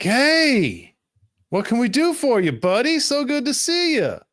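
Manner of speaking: chummy cops. Retold or imitated. GM voicing relieved cops greeting the sheriff, high and chummy. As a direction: greet him like an old buddy. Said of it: "They're like".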